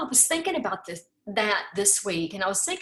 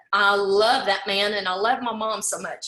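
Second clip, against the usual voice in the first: crying; 3 semitones lower, 4 dB louder than usual. Real, not acted. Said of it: "sorry I started crying".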